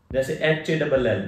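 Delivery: spelling out H-A-double-L letter by letter; "एच ए डबल एल" said letter by letter; spelled-out letters. Shown as a demonstration. Teacher spells out "एच ए डबल एल" for students. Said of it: "तो वो ओल की आवाज देता है".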